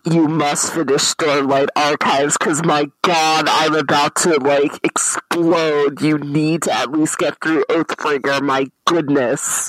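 firm, urgent negotiator pleading; hostage negotiator voice. Acted. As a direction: talk them down like a negotiator. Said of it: "The speaker's impression of a hostage negotiator".

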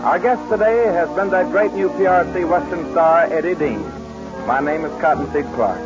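vintage show sign-off; bright old-time announcer read; old radio announcer. Acted.

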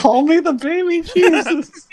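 high, slow, laughing mock child; laughing imitation of the kid. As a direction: giggle out the kid's claim. Echoing the kid's line, amused.

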